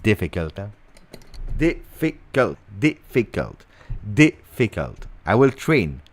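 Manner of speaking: ordinary talk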